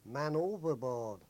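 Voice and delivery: slow, loud hailer call; retold shout over hailer. Crew answering the destroyer over the hailer, slow loud call. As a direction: call it slowly across the water. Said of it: "shout back over the loud hailer".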